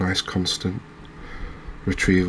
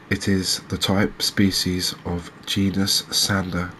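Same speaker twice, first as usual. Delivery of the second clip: reading aloud. Acted. Angler reading a fish fact sheet to viewers, reading aloud. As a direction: read it out evenly, phrase by phrase. Reads out an encyclopedia entry.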